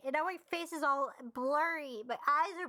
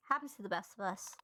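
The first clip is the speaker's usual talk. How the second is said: ordinary delivery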